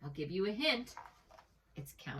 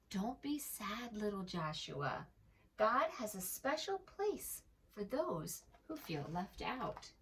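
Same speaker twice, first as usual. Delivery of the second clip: kind and friendly; 2 semitones higher, 3 dB quieter than usual. Acted. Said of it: "her voice was always kind and friendly".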